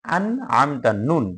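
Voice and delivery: আন with a true n, then আমতা; name the নুন after sounding it clearly in আন; distinct n in আন আমতা; correct clear nun. Shown as a demonstration. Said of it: "এরকমও হবে না".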